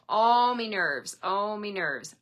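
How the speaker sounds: loud, slow "Oh, me nerves", then easing off; exasperated exclamation. Acted. Showing viewers how the saying sounds, loud mock exasperation. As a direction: throw up your hands in mock exasperation.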